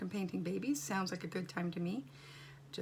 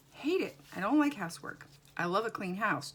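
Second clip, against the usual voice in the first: emphatic; 7 dB louder than usual. Real, not acted. Venting about housework.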